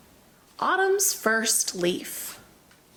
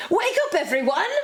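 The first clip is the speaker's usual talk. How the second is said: shouted; 7 semitones higher, faster than usual. Acted. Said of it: "Squawky shouted".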